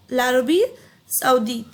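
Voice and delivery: ला अरबी said as one word, then सऊदीत; linked French. Shown as a demonstration. Teacher showing the linked French pronunciation. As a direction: run ला into अरबी with no break. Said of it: "तो एक साथ तो बोलना ही है".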